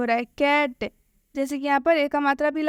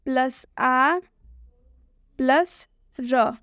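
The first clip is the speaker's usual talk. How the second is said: slow teacher spelling; much slower than usual. Shown as a demonstration. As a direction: stretch each sound slowly for the class. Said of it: "क्यों इस तरह से लिख रहे हैं?".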